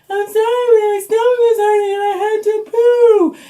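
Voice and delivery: put-on squeaky child apology; kid excuse. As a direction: play a little kid explaining innocently. Kid excuses bathroom stop.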